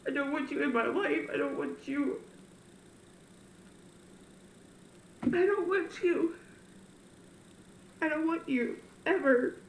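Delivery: grind out each word, rejecting him; angry. Retold or imitated. Telling God she wants nothing to do with him. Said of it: "I'm like".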